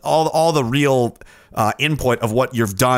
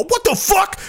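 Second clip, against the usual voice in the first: high mock-baffled outcry; confused fans; slower than usual. Viewers discovering the channel is gone, high baffled outcry. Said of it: "They go".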